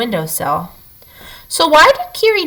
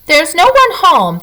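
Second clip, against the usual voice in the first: called out high and loud through the door; boy calls out high and loud to the knocker; calling out; 7 semitones higher, 4 dB louder than usual. Acted. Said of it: "the boy called out".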